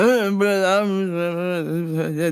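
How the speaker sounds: garbled, run-together mock mumble; imitated mumbling. Customer trying to say what he needs, mumbling. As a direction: mumble so the words barely form. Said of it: "it was like the mumblies".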